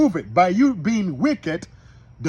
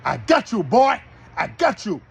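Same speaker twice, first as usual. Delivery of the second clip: gloating devil; 4 dB louder than usual. Acted. Devil gloats over the man who opened the door, hammed-up. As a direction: crow like a devil who has caught his prey. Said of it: "Now the devil like".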